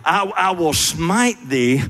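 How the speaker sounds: "smite thee" lifted high in King James style; lightly intoned "I will smite thee" like scripture; mock biblical prophet. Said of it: "that's Side's translation".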